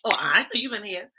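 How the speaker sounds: mock surprised viewer. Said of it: "they'll be like".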